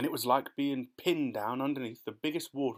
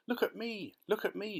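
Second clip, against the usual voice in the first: much higher, gleeful crowing; excited shout; 9 semitones higher than usual. Acted. Centipede, freed by the rain, shouts excitedly to the others. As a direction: show off in delight. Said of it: "shouted the centipede excitedly".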